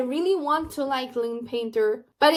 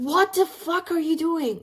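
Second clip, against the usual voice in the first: higher-pitched indignant demand; mock outraged brother; 5 semitones higher than usual. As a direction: imitate a brother telling off his sister. Brother confronts sister in retelling.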